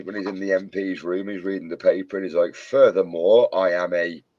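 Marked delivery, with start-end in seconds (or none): 2.5-4.2 film quote. Retold or imitated. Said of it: "that bit when he's in the".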